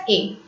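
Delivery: "A" said as a pure "ay" vowel; pronounced sound demo. Shown as a demonstration. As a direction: give "A" as a clean French é sound. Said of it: "it's also pronounced as".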